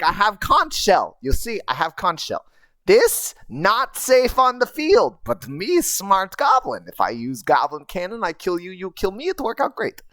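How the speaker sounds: a smug little goblin explaining his clever plan. Retold or imitated. Goblin pitching a suicide plan, lightly squeaky. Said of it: "I used all of the squeaky sounds".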